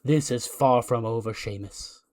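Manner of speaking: slow, ominous preacher's promo; Messiah. Acted. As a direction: pronounce judgement with long drawn-out words. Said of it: "He goes".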